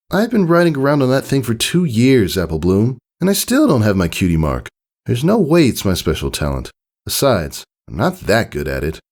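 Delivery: high voice fading down and doubtful; a kid talking herself down; high filly doubting her own talent. A narrator's reading. Scootaloo answers, doubting herself.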